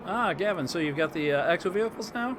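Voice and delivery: strained, hoarse-edged voice; losing his voice. Real, not acted. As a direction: push through a tiring voice. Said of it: "seem to be losing my voice here".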